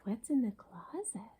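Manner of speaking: hushed secretive whisper; whispering a mystery to the children. Acted. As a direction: breathe it like a secret. Reader teases kids.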